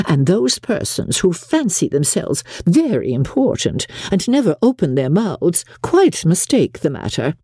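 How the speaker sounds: a hint of a gushing society mother, pitch swooping; lightly voiced gushing mother. Mother showing off to Mister Bingley, lightly voiced gushing. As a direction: play the chattering mother lightly, with swooping emphasis.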